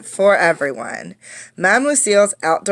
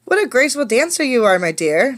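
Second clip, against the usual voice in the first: quick, higher gushing praise; exclaiming; 5 semitones higher, faster than usual. Acted. Dance teacher praising her dinosaur pupil, exclaiming. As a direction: gush over her pupil. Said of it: "Madame Lucille exclaimed".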